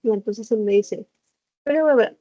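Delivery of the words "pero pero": mock mumbled "Pero, pero", slurred into one blur, louder; a hammed-up garbled quote of her dad; imitating vague mumble. Teacher imitating her dad's garbled reply, mock slurred mumble. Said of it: "lo dijo rápido y con una pronunciación vaga".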